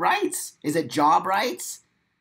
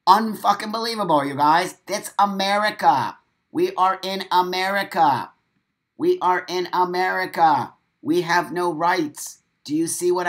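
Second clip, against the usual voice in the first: louder and higher, furious disbelief; outraged loud rant; 4 semitones higher, 6 dB louder than usual. Real, not acted. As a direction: let the outrage burst out at the crowd. Outraged rant about lost rights.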